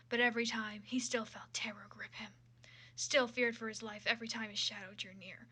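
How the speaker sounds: steady dramatic reading of a fan fiction; story narration. Acted. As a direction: read the prose like an audiobook. Reads fanfic narration aloud.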